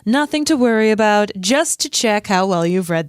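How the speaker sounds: lightly put-on TV news voice; a touch of sing-song self-regard; Gilderoy Lockhart. Podcast host reads Lockhart's quiz speech, lightly voiced smug character. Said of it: "love your Gilderoy Lockhart voice".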